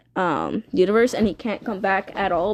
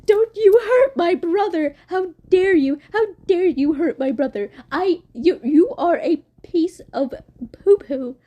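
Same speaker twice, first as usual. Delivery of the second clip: much higher, tearful protective shout; Earth defending her brother; 6 semitones higher than usual. Retold or imitated. Earth shouts at Blood Moon for hurting her brother, in a much higher tearful yell. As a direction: scream at him to stop hurting your brother. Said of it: "she's like".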